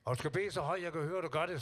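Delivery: mother's voice. Retold or imitated. Singer retelling his mother's bedtime rule, mild mock mother voice. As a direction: imitate mum laying down the rule. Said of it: "sagde hun".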